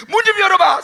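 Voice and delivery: high, loud laughing shout; hammed-up angry mother; mother yelling. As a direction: yell at the child, half laughing. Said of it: "나중에 엄마가 뭐래요".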